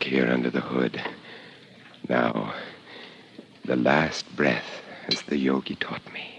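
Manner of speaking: breathy hushed whisper. Acted. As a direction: whisper it under your breath. Final breath under the hood.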